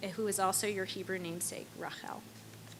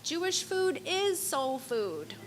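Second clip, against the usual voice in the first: put-on New York Jewish accent; 7 semitones higher, slower than usual. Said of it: "exclaimed in his New York Jewish accent".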